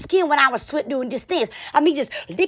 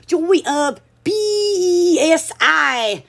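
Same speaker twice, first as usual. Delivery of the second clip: halting name attempt; much slower than usual. Real, not acted. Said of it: "this last name right".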